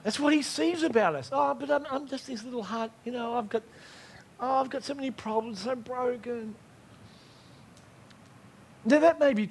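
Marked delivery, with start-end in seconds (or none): 1.3-6.5 soft, small self-pitying whine; mock self-pity. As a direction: play the broken little heart, softly. Mocking a self-pitying believer.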